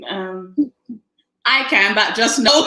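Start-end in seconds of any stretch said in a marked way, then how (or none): 1.4-2.7 Caribbean accent with too much effort; overdone Caribbean accent. Shown as a demonstration. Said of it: "you put too much effort".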